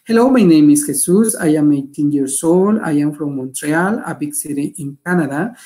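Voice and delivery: measured classroom read-aloud in English; reading a sample. Shown as a demonstration. Teacher reading the model introduction to students, clearly. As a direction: read the example clearly for learners.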